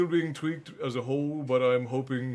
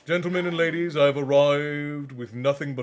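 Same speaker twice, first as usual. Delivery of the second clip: grand announcer voice; 6 dB louder than usual. Pretend. Grand announcement voicing the cat.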